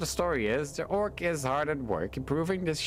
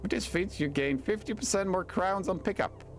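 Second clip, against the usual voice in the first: higher, wheedling voice of greed; greedy tempter voice; 9 semitones higher than usual. Acted. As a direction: coax them toward money like a tempter. Voices game's greedy spirit.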